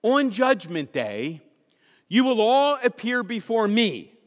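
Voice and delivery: 1 Jesus proclaiming. Acted. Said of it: "he says this".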